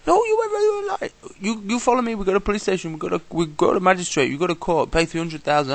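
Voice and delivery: high, loud bossy cop voice; imitated policeman. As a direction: lay down the fine like a pompous officer. Police officer demanding fine.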